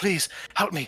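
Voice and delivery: desperate begging and pleading. Voicing a chained prisoner clawing at a player: begging and pleading. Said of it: "begging and pleading with you".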